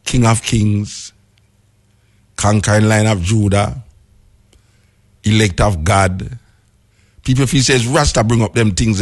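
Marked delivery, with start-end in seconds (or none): 0.0-6.4 King of Kings spoken slowly and weightily; slow solemn titles. Shown as a demonstration. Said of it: "see it like".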